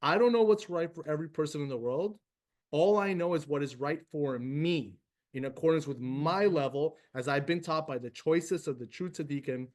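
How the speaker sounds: earnest reread of the prayer line; gentle prayer, fading at the end; prayer reading. Acted. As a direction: repeat the line with conviction. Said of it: "Beautiful line, guys".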